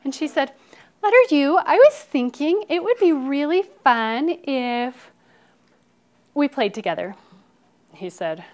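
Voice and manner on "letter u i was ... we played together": high, loud wheedling to start; scheming storybook girl voice; bossy character. Acted. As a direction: coax in a put-on high voice, easing down at the end. Bossy R coaxes U, acted.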